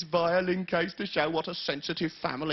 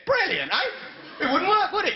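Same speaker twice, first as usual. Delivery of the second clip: mock enthusiasm; 11 semitones higher than usual. Mocking a true joke.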